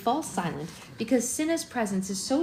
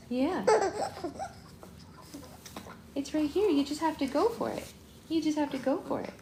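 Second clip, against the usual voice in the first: high apologetic soothing; 6 semitones higher than usual. Real, not acted. Mother apologising to her crying baby, high and tender.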